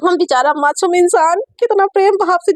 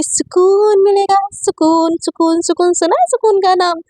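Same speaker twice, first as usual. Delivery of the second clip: menacing gloat; 5 semitones higher than usual. Acted. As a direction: drag out the word with relish.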